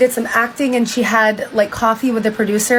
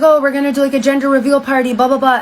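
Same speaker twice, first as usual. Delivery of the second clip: higher-pitched mock enthusiasm; hyped-up retelling; 4 semitones higher than usual. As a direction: gush lightly as an imitated excited dad-to-be. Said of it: "he's actually super hype".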